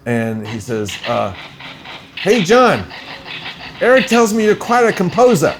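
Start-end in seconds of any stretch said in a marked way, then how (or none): 2.2-5.5 higher-pitched, hammed-up Bronx accent; heavy Bronx accent. Film's spokesman calling the composer, in a Bronx accent. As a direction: imitate the caller in a thick Bronx accent. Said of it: "heavy Bronx accent".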